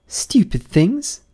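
high, slow, loud indignant cry; Alice bursting out in outrage at the jurors; loud indignant outburst. A narrator's reading. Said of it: "in a loud, indignant voice".

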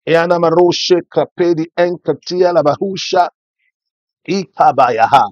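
rapid, fervent tongues; speaking in tongues. Acted. Pastor praying in tongues for the church, fervent. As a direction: let the prayer language flow.

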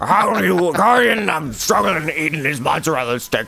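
imitating someone choking on a mozzarella stick; hammed-up strangled, struggling voice; choking on food. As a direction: talk as if cheese is stuck in your throat. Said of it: "Sounds like he's choking on a mozzarella stick every time he tries to talk".

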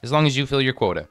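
lightly voiced stern official woman; a hint of a serious boss welcoming you; stern station boss.

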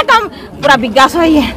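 ordinary delivery

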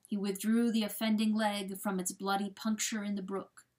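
ordinary delivery, nothing marked

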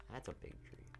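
whispered, breathy repeat of the line. Shown as a demonstration. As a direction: drop to a whisper on "That's a big tree".

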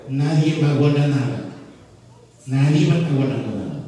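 loud stern prohibition; stern warning. Acted. God warns the people not to hoard, loud and stern. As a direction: forbid it, hard.

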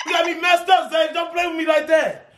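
heated, shouting threats; angry yelling. Real, not acted. Boyfriend storming in on the prank, furious shouting.

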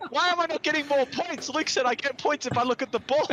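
laughing retelling. Retold or imitated. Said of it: "like going".

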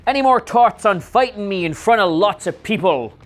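a light imitation of an Irish accent. Vlogger reading Becky's tweet in a light Irish accent. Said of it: "That's not my best accent".

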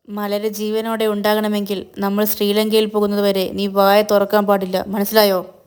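mildly angry, controlled menace; a touch of stern intimidation; angry threat. Acted. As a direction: warn with understated anger. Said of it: "ദേഷ്യത്തിൽ മഹേഷ്".

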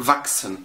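فاكسن بإكس عادية; قول فاكسن بكس واضحة; chs as x. Shown as a demonstration. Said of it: "إكس عادية جدًا". (نطق فاكسن بإكس عادية)

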